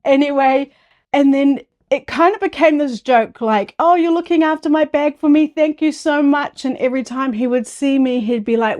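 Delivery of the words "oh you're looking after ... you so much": usual speaking voice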